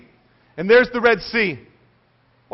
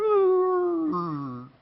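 deflated "ooh"; 8 semitones higher than usual. Acted. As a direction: let the bravado leak out like a balloon. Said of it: "like deflated balloon".

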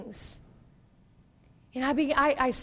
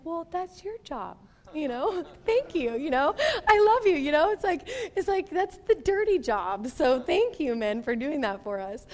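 sweet teasing to husband; 3 semitones higher than usual. Retold or imitated. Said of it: "I was just like".

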